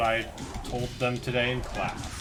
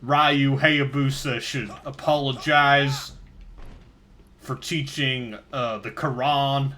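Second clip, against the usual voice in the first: interviewee voice. Acted. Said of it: "now you're also the person they're interviewing?".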